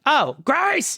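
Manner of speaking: high surprised realization; sudden recognition. Real, not acted. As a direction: remember it all at once. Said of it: "She very much gets a loud name".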